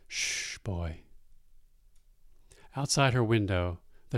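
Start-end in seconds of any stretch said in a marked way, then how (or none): 0.1-1.0 soft whispered shush; hushing whisper. Acted. Dying mother hushing her son, in a soft whisper. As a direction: whisper to calm him.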